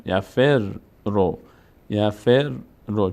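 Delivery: "یفر رو" with the r said twice; doubled consonant. Shown as a demonstration. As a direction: split "یفر رو": held r, then ro.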